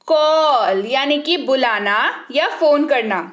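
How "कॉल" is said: कॉल with a long "aw" vowel; pronunciation demo. Shown as a demonstration. Teacher quizzing learners on the sound, pronunciation demo of कॉल. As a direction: stretch कॉल out as "kawl". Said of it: "क्या उच्चारण कर रहे हैं?".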